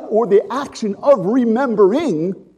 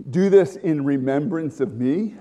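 liturgical reading; 3 semitones lower than usual. Retold or imitated. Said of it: "When I do communion".

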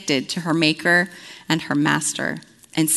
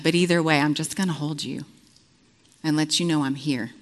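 gentle voice of God; 2 semitones lower than usual. Retold or imitated. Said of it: "the Lord says".

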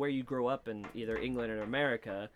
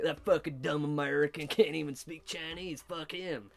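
mock Chinese Alabama accent; 3 semitones higher than usual. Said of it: "in the Chinese Alabama accent".

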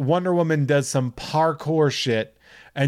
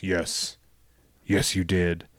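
lower, softer flat reply; mock Darkseid; 5 semitones lower, 4 dB quieter, slower than usual. Host imitating Darkseid answering Desaad, lower. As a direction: answer like a bored tyrant.

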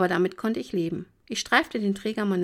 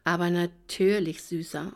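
purring. Acted. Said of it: "säuselte ich".

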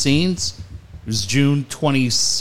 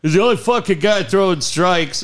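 retold yelling; 5 semitones higher than usual. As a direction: bark it like an angry manager, half-playful. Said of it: "two guys that are yelling at each other".

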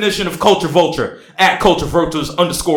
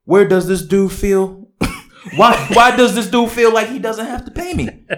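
mock passion; 5 semitones higher than usual. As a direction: overact the wronged man's post. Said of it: "I need more dramatics".

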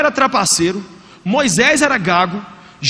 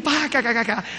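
mock laughter; 5 dB quieter than usual. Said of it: "a irmã veio rindo".

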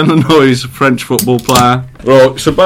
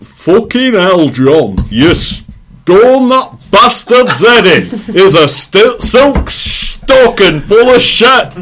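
put-on Sean Bean accent; 6 semitones higher, 3 dB louder, much slower than usual. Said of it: "Scottish at the end".

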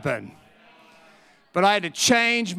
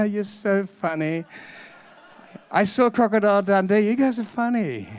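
amused agent; 3 semitones higher than usual. Retold or imitated. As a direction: laugh it off, as if the offer must be a joke. Amused agent laughs off the offer.

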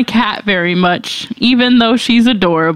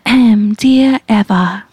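slow, grand announcer read; slow stately mock announcer; fancy posh host; much slower than usual. Shown as a demonstration. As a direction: draw it out like a rich man with scotch. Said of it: "can you sound like one of those people".

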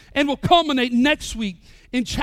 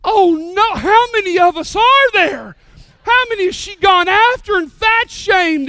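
higher and louder, hammed-up alarm; mock alarm; 5 semitones higher, 7 dB louder than usual. Pastor reacting to more victims with loud, hammed-up alarm. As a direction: play it like a comic panic. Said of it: "And I was like".

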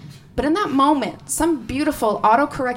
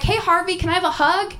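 put-on higher-pitched talk to a small child; lightly acted sweet request, pitched up; coaxing aunt; 7 semitones higher than usual. Aunt asking her four-year-old nephew for a hug, coaxing.

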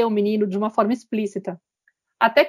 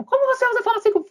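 indignant mother; 13 semitones higher, faster than usual. Retold or imitated. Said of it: "Aí ela fica quieta".

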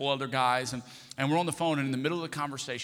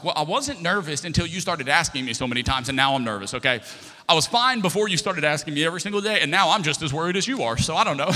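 loud, worked-up comeback; retold exasperation; 5 dB louder than usual. Husband blames wife's questions for his nerves, in mock exasperation. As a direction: protest with rising volume, hammering the blame back. Husband snaps back at worried wife.

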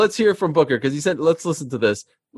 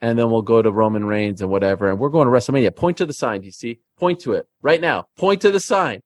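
wrestling promo; 3 semitones lower than usual. Acted. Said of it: "cut a promo".

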